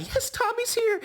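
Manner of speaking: high mock squeal of delight; mock excited squeal. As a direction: squeal it like you can't hide your excitement. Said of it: "I know you jumping inside".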